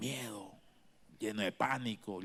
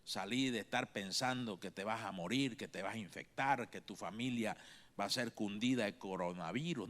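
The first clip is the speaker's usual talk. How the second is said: softer, lower coaxing voice; Jesus gently telling his followers to let go of fear; gentle urging; 3 semitones lower, 3 dB quieter than usual. Acted. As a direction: lead them out of fear gently. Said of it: "Como diciendo".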